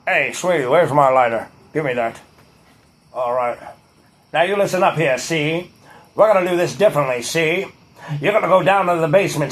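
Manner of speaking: lightly voiced mobster giving orders; old-time gangster. Tough guy voice, "see?" tag.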